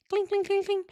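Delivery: high, repeated little clinking noise; high-pitched cling sounds. Acted. Host imitates the SIM going in, high clinking.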